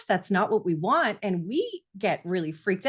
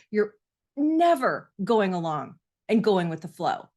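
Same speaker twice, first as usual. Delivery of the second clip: mild mock blame toward a defiant child; exasperated parent. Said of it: "you might say to yourself".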